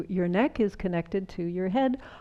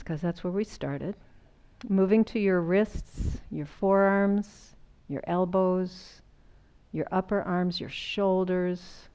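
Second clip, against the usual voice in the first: guided body scan. Acted. Guided body awareness, eyes closed.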